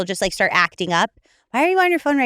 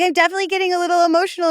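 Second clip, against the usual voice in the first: retold emotional self; 9 semitones higher, much faster than usual. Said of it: "I was like".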